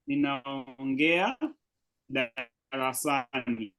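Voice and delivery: teacher slows right down on ninaongea; slow model word. Shown as a demonstration. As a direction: stretch ninaongea out slowly so students catch every syllable. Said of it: "I can say nina".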